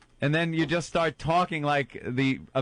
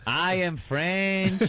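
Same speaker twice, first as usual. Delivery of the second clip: mock French accent; 3 semitones higher, much slower than usual.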